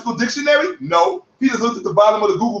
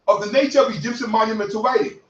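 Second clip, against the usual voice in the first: a brisk first pass over the definition; quick read; faster than usual. Shown as a demonstration. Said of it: "You heard that".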